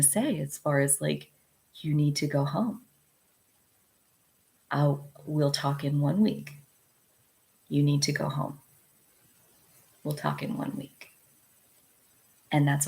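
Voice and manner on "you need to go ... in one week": quiet, even, steady boundary-setting; a calm, contained line to a volatile person; calm firm voice. Shown as a demonstration. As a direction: say it softly and leave no room to argue. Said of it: "in that voice".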